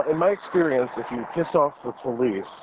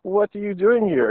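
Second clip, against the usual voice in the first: surprised question; 9 semitones higher, 3 dB louder than usual. Retold or imitated. Voicing skit characters.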